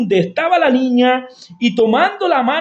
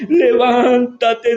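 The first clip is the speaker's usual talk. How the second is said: slow command; slower than usual. Acted.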